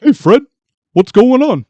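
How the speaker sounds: goofy cartoon sidekick greeting a pal; Barney Rubble voice. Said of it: "The old cartoon voice of Barney Rubble".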